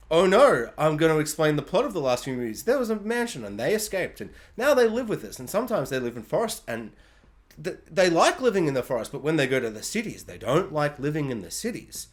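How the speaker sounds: mock reporter explaining the plot; boring news reporter. Mocking a reporter explaining the last movies, lightly dull and uninspired. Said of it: "the most boring, uninspired, like, news report".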